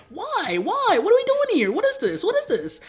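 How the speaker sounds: high-pitched, exasperated disbelief; incredulous questioning. Acted. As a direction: squeal the questions in mock outrage. Exasperated rant about film's plot.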